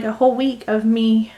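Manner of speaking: talking through hiccups. Real, not acted. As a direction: speak while hiccuping. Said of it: "I'm hiccuping again today".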